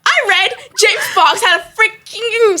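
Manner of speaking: slow, high, breaking into laughter; fighting back laughter; laughing. Real, not acted. Telling friend a story, laughing through the words.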